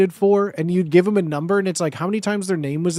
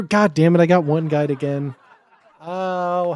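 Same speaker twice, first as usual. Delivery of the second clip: ordinary delivery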